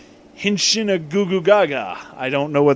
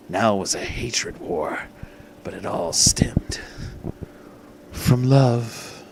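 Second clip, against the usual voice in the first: dramatic whisper; 4 semitones lower, 3 dB quieter, slower than usual. A narrator's reading.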